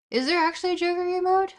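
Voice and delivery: high, loud, fast disbelief; surprised question. Real, not acted. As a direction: blurt it out in quick surprise. Startled by an unexpected emote.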